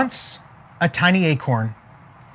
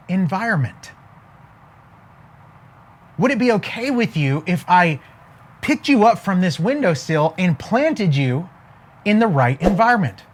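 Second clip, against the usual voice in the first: gentle sparrow. Acted. Wise sparrow advising acorn.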